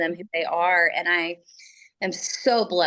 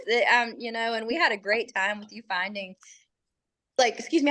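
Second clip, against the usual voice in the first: talking through hiccups; speech broken by hiccups; 4 semitones higher than usual. Real, not acted. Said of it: "I have the hiccups".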